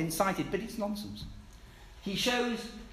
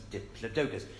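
"Diplodocus" with weight on the -do- syllable; penultimate stress; 5 semitones lower, 4 dB quieter than usual. Shown as a demonstration. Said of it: "we always stress the penultimate syllable".

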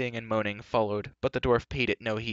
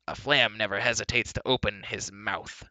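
dry retort. Acted. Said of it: "put in Dolly".

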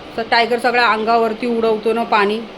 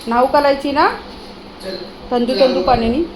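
put-on baby talk to dog; 3 dB louder than usual.

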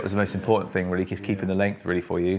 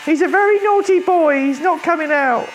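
much higher, whiny mock wife. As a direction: squeak it out as a put-on whiny wife. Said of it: "whiny wife voice".

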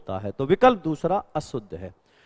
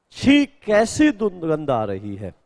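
mildly exclaimed, slow and drawn out; exclamation of dismay; slower than usual. Shown as a demonstration. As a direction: read it as a slow, understated exclamation. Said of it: "विस्मय कर रहा है". (हल्के विस्मय से, धीरे-धीरे)

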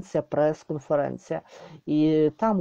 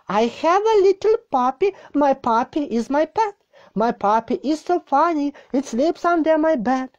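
put-on higher children's read; 7 semitones higher than usual. Shown as a demonstration. Second reading, higher and sing-song.

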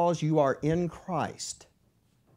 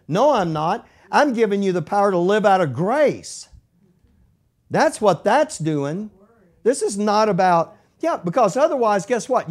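higher and louder, fervent preaching; preaching at full force; 8 semitones higher, 6 dB louder than usual. Acted. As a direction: drive the point home to the congregation.

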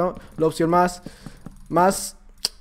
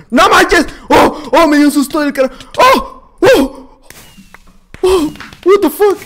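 startled yelling; 7 semitones higher, 5 dB louder, slower than usual. Real, not acted. Jump scare in the game.

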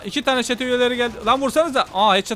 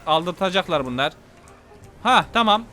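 ordinary delivery

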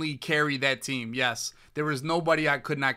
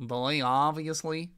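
Jaybird impression. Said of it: "sounds just like Jaybird".

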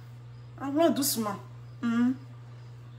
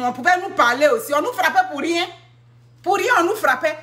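higher and louder indignant protest; 5 semitones higher, 4 dB louder than usual. Real, not acted. A mother complains she was beaten as a child, in indignant protest. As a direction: protest the unfair beatings.

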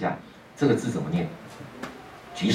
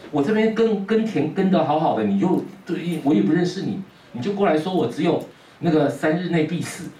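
put-on higher, indignant young man; annoyed youth; 5 semitones higher than usual. Young farmer grumbling about Guan Lu, higher and indignant.

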